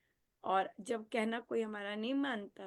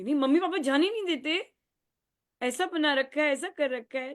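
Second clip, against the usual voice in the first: rebellious complaint; 5 semitones higher, 8 dB louder than usual. Retold or imitated.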